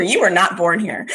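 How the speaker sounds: teasing imitation of a solemn announcement; mock doctor. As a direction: lightly imitate a doctor breaking news. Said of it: "like you were a doctor".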